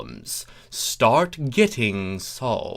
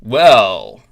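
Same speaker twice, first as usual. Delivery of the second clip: loud gruff well; 12 dB louder than usual. A narrator's reading. Thorax confronts them gruffly.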